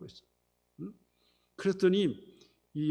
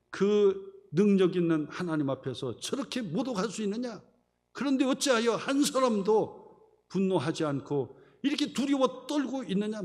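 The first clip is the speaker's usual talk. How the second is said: raised, high preacher's challenge; indignant rebuke; 5 semitones higher, 3 dB louder than usual. Retold or imitated. David rebukes Israel's trembling soldiers before Saul, indignant. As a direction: act out David reproaching the frightened army.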